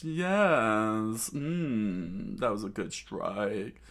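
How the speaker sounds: drawn-out relish; lightly acted smug pleasure; self-satisfied gloating. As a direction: savour the hit, settling down. Villain savours own strike.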